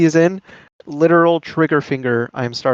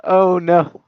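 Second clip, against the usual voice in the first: play-by-play commentary. Acted. Live match play-by-play.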